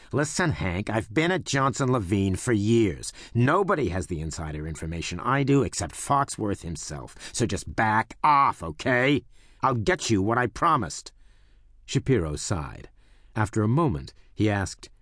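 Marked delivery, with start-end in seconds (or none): 0.1-11.1 whisper yelling. Acted. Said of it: "he whispered fiercely".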